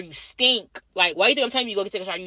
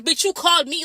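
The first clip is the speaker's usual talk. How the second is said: higher pitched mock exasperation; inner retort; 8 semitones higher than usual. Nurse's silent retort to the patient, higher exasperated. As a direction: snap back in your head, pitch up.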